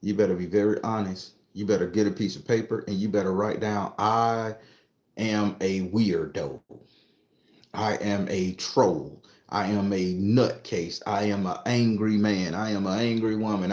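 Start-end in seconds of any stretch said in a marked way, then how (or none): 4.0-13.7 slow, measured, lowered pitch; slow dictation. Shown as a demonstration. Telling listeners what to write down, slow deliberate dictation. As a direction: spell it out slowly, one admission at a time.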